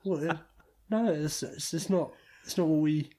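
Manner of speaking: exasperated. Real, not acted. Exasperated at AHL trade.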